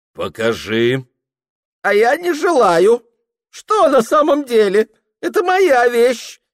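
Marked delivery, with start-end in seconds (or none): 1.8-6.4 put-on high, loud drunken cry of a lovesick clerk; Ilya exclaiming. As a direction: shout out his despair, much higher than the narrator. Ilya refusing loudly. (высокий громкий пьяный вскрик влюблённого)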